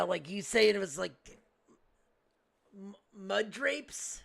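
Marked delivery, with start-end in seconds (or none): 2.8-4.2 "mud drapes" stumbled out slowly, rising like a question; botched surname. Acted. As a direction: sound out "mud drapes" haltingly, unsure of the name. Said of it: "are you trying to pronounce Dave's last name".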